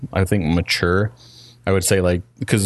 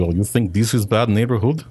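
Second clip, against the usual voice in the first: mock Russian comeback; Russian accent. Comedian answers the thug, mock Russian accent. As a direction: put on a rough Russian accent. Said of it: "It's a terrible Russian accent".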